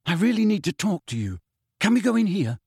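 pleading. Acted. Harry pleading with Nick.

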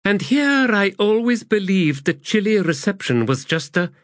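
high-pitched sardonic remark, cut off; snorting scorn. A narrator's reading. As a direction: scoff until interrupted mid-phrase. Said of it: "snorted and said".

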